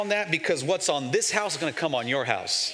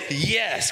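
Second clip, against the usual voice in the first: a short, certain yes; firm yes. Shown as a demonstration. Pastor leads the church in saying yes, firm and certain. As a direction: answer God firmly. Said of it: "Come on, like this".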